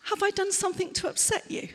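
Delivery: a touch of worried care; concerned question. Acted. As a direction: check gently if you caused it. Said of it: "And this is the last one".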